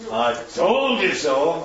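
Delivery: slow, gloating I told you so; slow reproachful told-you-so; smug told-you-so. Shown as a demonstration. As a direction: drag it out to rub it in. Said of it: "but not".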